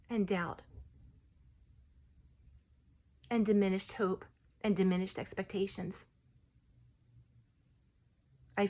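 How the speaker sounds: a gentle tree spirit softly offering help. Retold or imitated. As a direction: speak as the healing tree, hushed and reverent. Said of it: "what I heard in that parking lot".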